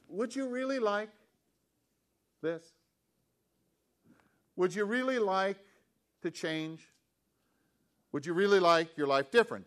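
high, searching voice for the question; a lightly voiced Jesus, searching; probing question. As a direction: press the question gently but pointedly. Preacher voicing Jesus' probing question.

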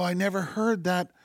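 hushed delight rising to "good"; retold delighted amazement. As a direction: savor the discovery, pitch lifted. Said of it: "and I go".

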